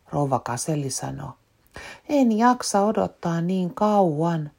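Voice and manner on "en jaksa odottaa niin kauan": put-on high, slow whiny child; impatient. Peppa complains to the teacher, high and impatient. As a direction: drag it out like a bored little girl. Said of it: "Pipsa sanoo kärsimättömänä".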